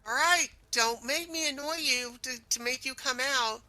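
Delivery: ordinary talk, nothing marked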